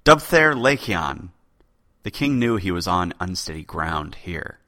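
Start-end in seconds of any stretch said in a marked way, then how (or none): 0.1-1.3 slow, louder, annoyed repetition of the name; irritated poet repeating himself; irritable repeat. Acted. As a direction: bite out the name impatiently. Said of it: "Dalan irritably repeated himself".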